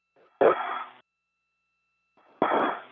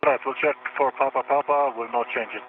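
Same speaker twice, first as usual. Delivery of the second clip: sci fi communicator; 5 semitones lower than usual. Real, not acted. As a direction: crackly space radio voice. Astronaut radio readback.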